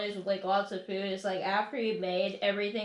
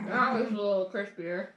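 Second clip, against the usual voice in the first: talking through a mouthful; words round a bite of food; mouth full. Real, not acted. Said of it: "It's hard to talk when you're mouth full".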